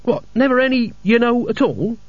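grinning tease. A narrator's reading. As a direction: let the grin show in it. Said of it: "sounded as if it was grinning".

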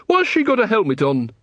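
high, complaining tradesman voice; a put-upon shopkeeper grumbling; Mister Flannel complaining to the watch; aggrieved shopkeeper. A narrator's reading.

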